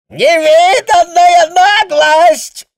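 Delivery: very high, loud, slow bellow; wild yell. A narrator's reading. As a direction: roar out in savage fury. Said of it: "заорал он диким голосом".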